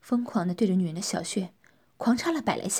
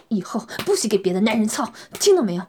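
louder, forceful male demand; fierce demand; 6 dB louder than usual. Acted. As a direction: lay down the order hard. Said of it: "边干边狠狠地说". (狠狠地说)

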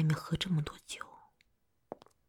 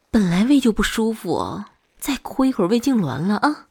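worried scolding; 6 dB louder than usual. Acted. Scolding a crying partner.

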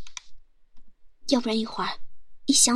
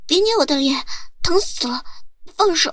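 talking with cheeks pinched; words squashed by pinching fingers; squished cheeks; 3 semitones higher, 4 dB louder than usual. Acted.

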